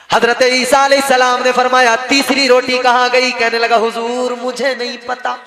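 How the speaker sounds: loud, ringing sermon storytelling; full-voiced preacher narration; preaching. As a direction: preach the tale out to the crowd. Preacher tells story to crowd.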